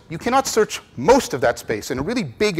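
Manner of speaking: emphasis on "most" in "You cannot search most of that space"; stress on most. Shown as a demonstration. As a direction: make "most" the word that lands. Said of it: "put an emphasis on the word most".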